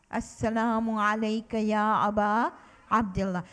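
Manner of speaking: brisk chanted greeting, rising then falling; quick recitation. Shown as a demonstration. Teacher drilling children in the greeting, brisk chant. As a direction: rattle it off as a call for the class.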